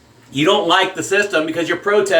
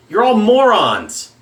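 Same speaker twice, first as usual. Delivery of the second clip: slow angry jab; 4 semitones higher, slower than usual. Real, not acted. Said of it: "Yeah, I'm mad".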